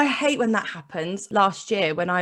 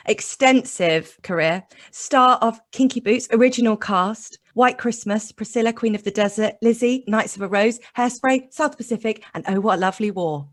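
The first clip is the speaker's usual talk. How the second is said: all in one breath. Shown as a demonstration. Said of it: "I'm gonna try and do it in one breath".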